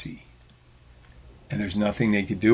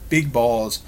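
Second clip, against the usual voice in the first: Tourette's outburst; 3 semitones higher, 4 dB louder than usual. Shown as a demonstration. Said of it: "just like that".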